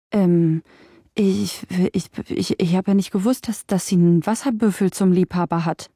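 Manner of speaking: stuttering, frightened hunchback; tripping over each word in fear; a hunchback stammering excuses to the ifrit in fear. Acted.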